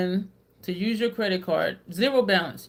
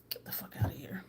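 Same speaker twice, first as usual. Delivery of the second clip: whispered dismissal; 3 semitones lower, 13 dB quieter, faster than usual. Shown as a demonstration.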